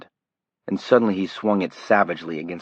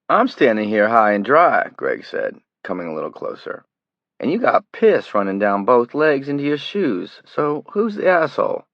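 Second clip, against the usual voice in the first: higher, louder mockery; sneering taunt; 5 semitones higher, 5 dB louder than usual. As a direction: rub it in. Greg mocking the terrified kid.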